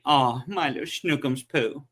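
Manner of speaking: slow, mildly cutesy imitation; imitating a partner being cute and funny; cutesy pet-name talk. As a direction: draw it out, playfully lovey-dovey. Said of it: "when she wants to be cutesy and, and funny".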